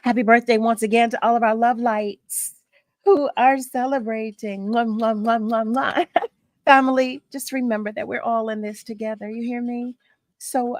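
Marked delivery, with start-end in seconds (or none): 4.7-6.1 a string of smacking air kisses; blown kisses. Real, not acted. Blowing kisses to listeners.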